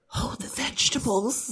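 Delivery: hushed, secretive mock whisper; soft, discreet undertone. Shown as a demonstration. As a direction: murmur it like an embarrassing order.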